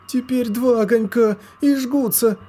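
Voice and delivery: put-on very high, loud child's scream; a little girl crying out the pain spreads; детский крик. A narrator's reading. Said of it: "закричала Лоска".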